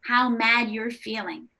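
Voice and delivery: put-on slow, soothing acknowledgement to a mad child; empathetic parent voice. Shown as a demonstration. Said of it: "you can say".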